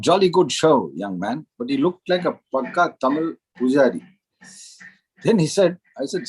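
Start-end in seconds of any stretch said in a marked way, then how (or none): 0.1-1.5 lightly imitated British professor; British accent. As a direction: put on a touch of jolly English gent. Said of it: "Perfect British accent".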